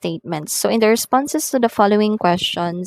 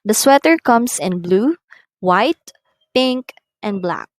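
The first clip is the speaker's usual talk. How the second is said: "blue", "white" rising, "black" falling; rising list, falling end; 2 semitones higher, 4 dB louder than usual. Shown as a demonstration. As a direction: lift each colour, drop on "black". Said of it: "did you notice the intonation as it rises and falls".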